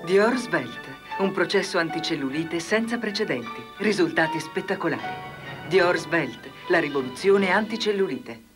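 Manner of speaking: infomercial. Acted. Dior ad voiceover.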